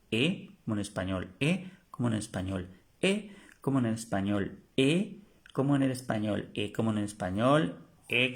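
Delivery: "E" repeated like the Spanish e, steady drill rhythm; drill repetition. Shown as a demonstration. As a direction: drill "E, como en el español" for repetition. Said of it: "se pronuncia E". (repetición: "E" como la e española)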